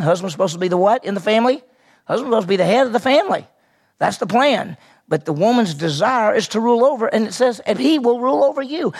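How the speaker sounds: preaching fervor. Real, not acted. Preacher driving point home.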